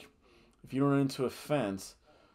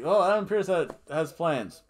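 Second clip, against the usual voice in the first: imitating wrestler; 6 semitones higher, 6 dB louder than usual. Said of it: "She's like".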